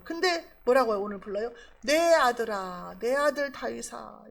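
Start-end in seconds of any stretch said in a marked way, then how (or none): 1.8-4.2 slow, drawn-out call to a son; moved fatherly call. Retold or imitated. Saul, moved by love, calling David his son, slowly and tenderly. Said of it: "이렇게 불러요".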